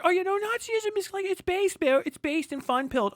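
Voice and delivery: high, sneering impression of an online Nazi; hammed-up right-wing poser; mocking right-winger voice. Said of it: "it's like".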